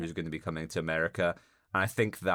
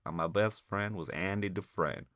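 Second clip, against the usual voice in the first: a hint of a solemn voiceover narrator; Morgan Freeman; 5 dB quieter than usual. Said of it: "using the Morgan Freeman setting".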